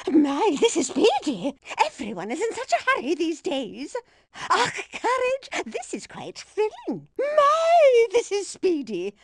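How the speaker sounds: lightly voiced elderly lady passenger, fussing and chirpy; a dotty granny rattling on mid-race, gently put on; chatty old lady. Old lady racer game barks.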